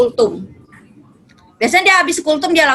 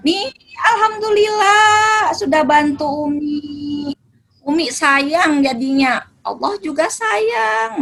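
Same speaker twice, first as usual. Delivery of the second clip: mock praise; 4 semitones higher, slower than usual. Mother praising child warmly.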